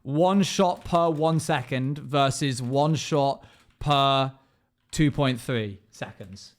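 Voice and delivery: slow, careful spelling-out of the numbers; slow clarifying. Shown as a demonstration. Streamer to chat, clarifying the fire rates slowly. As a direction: lay each number out slowly so nobody gets lost. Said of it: "Let me just clarify".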